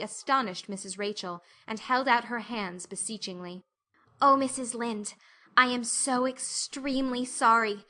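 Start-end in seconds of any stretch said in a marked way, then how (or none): 4.2-7.9 a touch of a tremble, pleading; hammed-up quiver of sorrow; girl on her knees apologizing, mild quiver. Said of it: "with a quiver in her voice".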